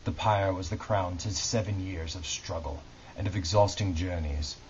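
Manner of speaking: measured, dramatic book reading; story narration. A narrator's reading. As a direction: read it like a solemn audiobook, pausing between phrases. Reads historical novel aloud.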